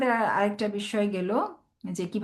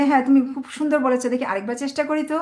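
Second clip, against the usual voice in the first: quick, higher, cheerful praise; praising a child; 4 semitones higher than usual. Shown as a demonstration. Parent praises child's answer and encourages a retry. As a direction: encourage the child to try once more. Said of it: "বলবেন যে".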